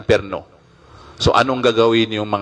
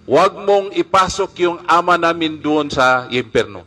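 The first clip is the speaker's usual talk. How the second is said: mock cry; 5 semitones higher than usual. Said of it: "Sisigaw yung mga anak kong babae".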